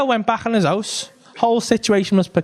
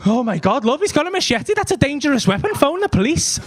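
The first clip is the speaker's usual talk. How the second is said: high-pitched proper, concerned gasp; mock alarm; 5 semitones higher than usual. Husband telling his love about a machete, mock alarm. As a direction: pretend to be sensibly alarmed. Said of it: "That wasn't my reaction".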